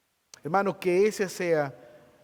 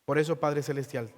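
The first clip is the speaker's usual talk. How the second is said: closing prayer. Acted. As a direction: pray over the congregation with humility. Pastor leads closing prayer.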